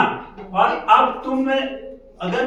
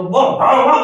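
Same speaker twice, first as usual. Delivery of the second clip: loud dog bark imitation; 4 semitones higher, 5 dB louder, much faster than usual. Shown as a demonstration. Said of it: "कुत्ता तेज हो".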